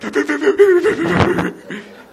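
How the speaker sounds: high, wheezing sob-laugh, loud; imitated asthmatic crying. Pastor imitating his father's asthmatic cry, high and wheezy. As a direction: mimic a gasping, wheezy cry. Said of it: "like the asthmatic crying".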